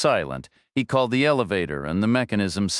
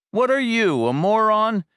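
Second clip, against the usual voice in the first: high, louder contemptuous shout; scornful yell; 13 semitones higher, 4 dB louder than usual. A narrator's reading. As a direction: bellow the insult in disbelief. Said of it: "the guy yelled back".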